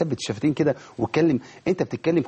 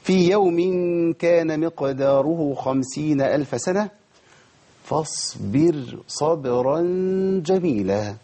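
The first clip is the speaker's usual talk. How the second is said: slow tajweed recitation of the verse; Quran recitation; much slower than usual. Shown as a demonstration. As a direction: recite slowly with full tajweed. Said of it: "فاصبر راء مرققة". (تلاوة مجودة بطيئة)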